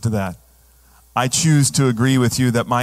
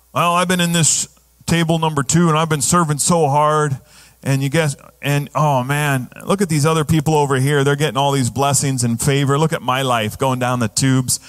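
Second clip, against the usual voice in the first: a hint of a self-pitying believer; mildly whiny woe-is-me voice; whiny complainer. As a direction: grumble like the put-upon older brother. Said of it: "the young goat mentality".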